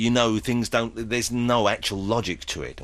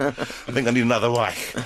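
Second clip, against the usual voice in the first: put-on punchline in a light German accent; mock German accent. Host caps the Hitler joke in mock German accent. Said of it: "I can do the accents".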